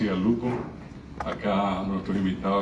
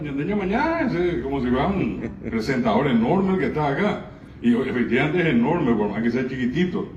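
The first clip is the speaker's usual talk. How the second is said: excited; 4 semitones higher than usual. Real, not acted. Speaker praises the boy enthusiastically.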